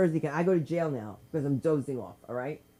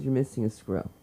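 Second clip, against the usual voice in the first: lower, flat-toned policewoman line; deadpan cop; 5 semitones lower than usual. Retold or imitated. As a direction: say it like a bored cop stating a fact. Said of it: "She goes".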